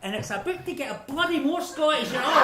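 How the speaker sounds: put-on Scottish accent. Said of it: "That sounded very Scottish".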